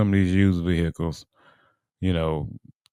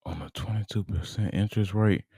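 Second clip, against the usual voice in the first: disbelief. Real, not acted. Host shocked by loan terms.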